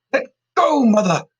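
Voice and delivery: high loud struggling cry. A narrator's reading. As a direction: yell while grappling. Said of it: "cried Caroline".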